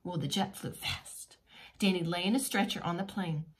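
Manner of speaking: lively storybook reading voice; reading to children. A narrator's reading. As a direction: read it like a bedtime picture book.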